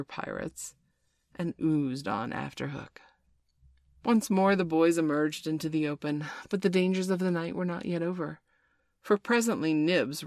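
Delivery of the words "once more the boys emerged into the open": plain reading voice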